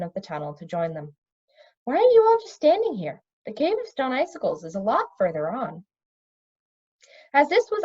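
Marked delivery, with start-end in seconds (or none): 1.8-5.8 bright exasperated question to the group; briskly impatient young princess; Cimmerian's voice. Acted. Cimmerian voiced in read story.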